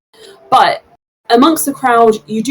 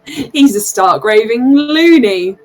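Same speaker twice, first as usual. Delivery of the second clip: mocking townsperson; 4 semitones higher than usual. Crowd member mocks halfling.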